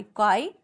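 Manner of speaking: क्वाई drawn out as one separate syllable; syllable demo. Shown as a demonstration. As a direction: say क्वाई alone, the first half of the word. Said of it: "sound होता है ना". (क्वाई को अलग syllable की तरह बोलें)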